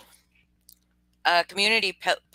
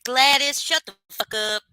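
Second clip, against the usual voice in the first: mock yell; 6 semitones higher, 6 dB louder than usual. Joking greeting yelled at chatter.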